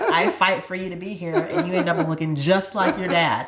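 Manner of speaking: put-on half-laughed rueful quote to the baby; laughing mock complaint. Mother teasing her newborn for looking like dad, laughing. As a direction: laugh through the joke. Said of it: "I'm like".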